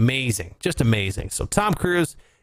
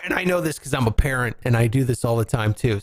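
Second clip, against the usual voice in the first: ordinary delivery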